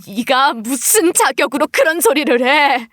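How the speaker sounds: a mild, steady rebuke; mother challenging her daughter's right, mildly stern; reproach. Acted. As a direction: ask it as a bitter challenge, voice held down.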